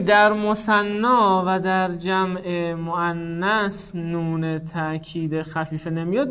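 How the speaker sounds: slow, measured statement of a rule; slow dictation. Shown as a demonstration. Teacher summing up the rule for students, slow dictation. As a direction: spell it out slowly, word by word.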